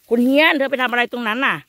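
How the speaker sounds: calling out. Real, not acted. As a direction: call out to her from a distance. Calling to Hian in forest.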